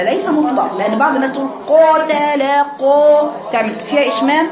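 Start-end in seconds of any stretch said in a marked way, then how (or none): 1.7-3.3 قو pushed out loud and rounded, the mistake; wrong rounded qaf. Shown as a demonstration. Teacher imitating the common mistake, loud rounded qaf. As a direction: exaggerate the rounded قو of قاتل. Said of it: "خطأ".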